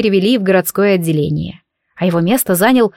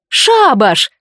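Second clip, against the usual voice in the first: a higher, louder cry of "Шабаш!"; shouted together; 5 semitones higher, 3 dB louder than usual. A narrator's reading. Friends shouting in unison to call a coven meeting, loud. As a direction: yell it as a rallying call. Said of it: "заорали мы дружно".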